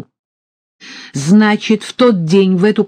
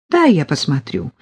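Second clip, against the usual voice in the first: peaceable; 3 semitones lower than usual. Acted. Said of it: "миролюбиво сказала Полина".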